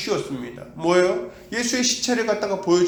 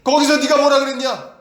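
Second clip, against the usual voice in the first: voice of God rebuking; 4 semitones higher, 3 dB louder than usual. Retold or imitated. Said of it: "하나님께서 이렇게 얘기하실 거예요".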